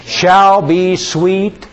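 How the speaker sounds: slow, drawn-out congregational recitation; slow psalm recitation with the congregation; recited aloud. Acted. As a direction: lead the room in saying the verse slowly. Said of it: "let's say it out loud".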